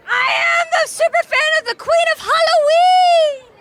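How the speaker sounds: high, loud fan shout; excited shout. Real, not acted. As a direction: proclaim it like the ultimate fan. Fan proclaims herself super fan.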